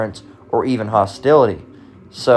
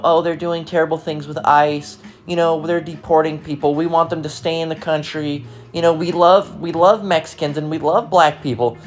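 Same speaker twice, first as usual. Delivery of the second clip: mock compassionate voice; 3 semitones higher than usual. Mocking opponents' old compassion.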